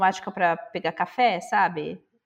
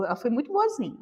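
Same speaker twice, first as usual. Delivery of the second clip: ordinary talk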